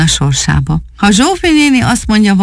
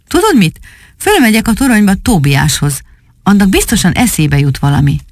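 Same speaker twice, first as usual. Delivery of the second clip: put-on eager boy; 3 semitones higher than usual.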